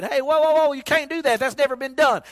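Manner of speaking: lightly voiced high protest; a hint of the friends crying out in alarm. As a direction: friends in the boat warning Peter off. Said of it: "with all of his friends saying".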